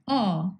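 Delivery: "aw" as the open vowel in swan; isolated vowel sound. Shown as a demonstration. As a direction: say "aw" alone and held, as in swan. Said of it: "as in swan".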